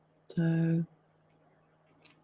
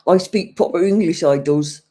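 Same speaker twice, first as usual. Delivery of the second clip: louder mock protest with I punched, I does; mock indignant; 5 dB louder than usual. To a viewer teasing her accent, a louder mock-indignant protest. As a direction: play the offended Brit, loud on I.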